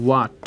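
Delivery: "what" low, starting with a w glide; correct pronunciation. Shown as a demonstration. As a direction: model "what" as wa plus t, no h. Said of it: "এটা কি উচ্চারণটা কি হবে?".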